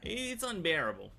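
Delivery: breathy exasperated whisper. Real, not acted. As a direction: whisper it in disbelief. Repeats phrase, first take whispered.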